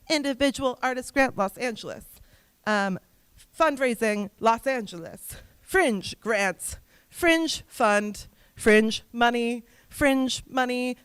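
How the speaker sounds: mock search-query recital, spaced out; typing search terms. Coach showing artists how to google funding, reciting search terms.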